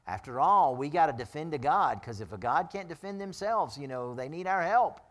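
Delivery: preacher mocking the idol makers, loud and sarcastic. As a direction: say it dripping with sarcasm, pretending to side with them. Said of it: "I'm being a little sarcastic tonight".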